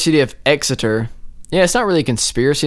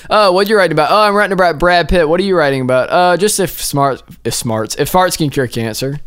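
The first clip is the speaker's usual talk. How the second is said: super casual; 4 semitones higher than usual. Retold or imitated. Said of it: "super casually".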